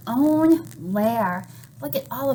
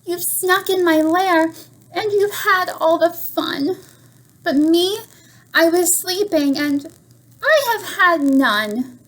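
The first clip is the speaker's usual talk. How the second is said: bear voice; 5 semitones higher than usual. Acted. Bear complains in story.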